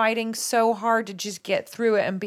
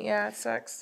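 teary; 7 dB quieter than usual. Real, not acted. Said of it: "Emotional moment".

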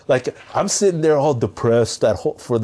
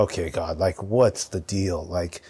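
bewildered murmur; 4 semitones lower, 6 dB quieter than usual. Retold or imitated. Retold quiet bewildered talk to God.

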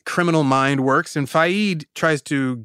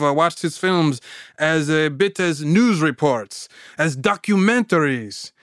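put-on French accent. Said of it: "Forgive my French accent".

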